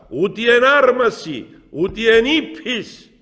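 "ούτε εν άρμαση, ούτε εν ύπης" cried out high and loud; triumphant shout. Retold or imitated. Elder shouting "ούτε εν άρμαση, ούτε εν ύπης" to the deacon, triumphant. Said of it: "φωνάζει με έναν ύφος θριαμβευτικόν".

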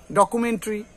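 ডকুমেন্টারি as "do-ku-men-tri"; light reduced ending on ডকুমেন্টারি; no "ta" in ডকুমেন্টারি, just "tri"; correct variant. Shown as a demonstration. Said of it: "চেষ্টা করবে এরকম করে উচ্চারণ".

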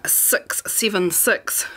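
slow New Zealand accent numbers; drawn-out Kiwi vowels. Real, not acted. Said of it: "love my Kiwi accent there".

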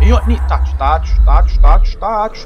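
loud, punchy burst of repeated words; excited rapid-fire shouting. Real, not acted. Player firing at enemies in a game, excited loud shouting. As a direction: fire the words out loudly, one after another.

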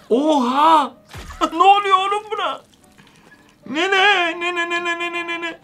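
high, laughing alarm, repeating her name; laughing panic. Real, not acted. Gamer calling the grandma as she mutates, laughing alarm. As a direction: laugh and call out to her in shock.

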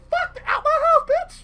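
high, loud, drawn-out yell; mock angry shout. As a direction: act out kicking someone out, slow and loud. Acts out throwing the addict out.

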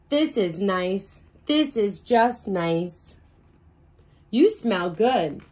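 slow, cosy hug voice; slow contented sigh. Acted. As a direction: savour the hug slowly.

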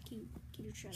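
hushed unvoiced whisper. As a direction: whisper it sharply. Someone sleeping in play.

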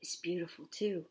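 soft, low, hushed fish voice; quiet storybook creature; roundest fish. A narrator's reading. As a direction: murmur it as a gentle fish. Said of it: "said the roundest fish".

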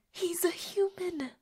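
high, slow, drawn-out complaint; whiny protest. Acted. Vampire protesting to friend on phone, high and whiny. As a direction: complain it high without raising the volume.

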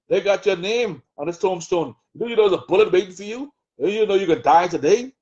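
lightly voiced taunting devil, mocking; the adversary's taunting voice. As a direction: sneer at the listener as the accuser in their head. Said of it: "whispering by the adversary".

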